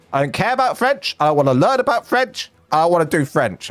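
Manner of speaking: put-on high, whiny teenage refusal; whiny kid voice. Shown as a demonstration. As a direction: whine it like a sulky teen. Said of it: "sorry, there's any French people".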